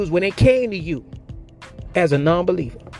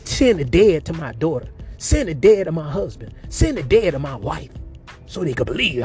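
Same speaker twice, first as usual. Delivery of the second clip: a mock plea from the rich man in hell, first pleases pitched up; begging plea. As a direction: beg Abraham over and over to warn the family. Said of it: "begging Abraham".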